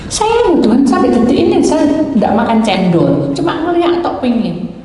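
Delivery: retold wheedling protest; indignant mock protest. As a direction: plead innocence to God, pitched high. Retold protest to God's rebuke.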